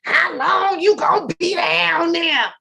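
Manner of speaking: loud, high, slow yell; mom yelling from upstairs. Retold or imitated. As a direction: call down like an impatient mom. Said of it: "I was down here for a minute".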